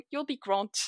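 "You'll be grant" with a French accent, the d hardened to t; learner's French-accented "You'll be grant". Shown as a demonstration. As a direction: mispronounce "grand" as "grant", French style. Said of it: "I was really struggling with that one".

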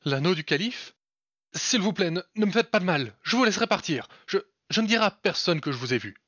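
high, loud, rushed panicked begging; stammering guard pleading for mercy; terrified pleading. Acted. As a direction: beg for your life, voice shooting up in terror. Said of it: "devenu blanc comme un linge".

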